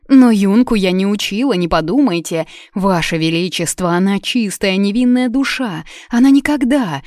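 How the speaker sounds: high, loud, pleading; desperate pleading. Acted. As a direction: beg for the girl's innocence. Тётка умоляет за Юну. (отчаянно умоляя)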